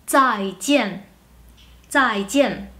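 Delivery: "zaijian" slowly, dz-ai then jien, both falling; Mandarin pronunciation. Shown as a demonstration. Teacher modelling a familiar word, "zaijian" slow with falling tones. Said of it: "una palabra que todos conocemos que se escribe con Z".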